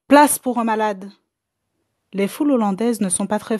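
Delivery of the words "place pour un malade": lancé. Acted. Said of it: "jeta ces mots".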